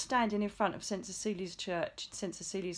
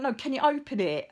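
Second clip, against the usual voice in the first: rude insistence; 4 semitones higher, 4 dB louder than usual. Retold or imitated. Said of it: "really, really rude with her".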